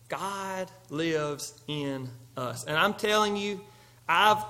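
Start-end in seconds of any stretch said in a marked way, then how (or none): 0.1-2.7 slow and much softer, weight on "lives"; soft repeat. Shown as a demonstration. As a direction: let it sink in, hushed.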